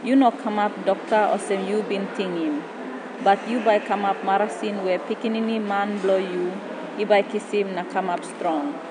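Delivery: spoken in Tok Pisin; papua new guinea pidgin. Acted. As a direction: recite in PNG pidgin. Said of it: "poem switches into Tok Pisin".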